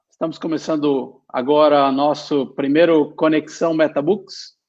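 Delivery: switches from English into Portuguese; switching between two languages. Real, not acted. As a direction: speak Portuguese here, then back to English. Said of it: "I'm gonna speak in Portuguese to start".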